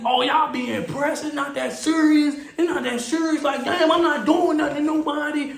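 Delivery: high, put-on complaining voice; whiny protest. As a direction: mimic a troublemaker protesting innocence. Troublemaker protesting once police arrive.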